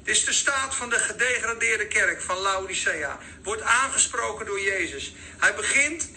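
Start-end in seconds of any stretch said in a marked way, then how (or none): none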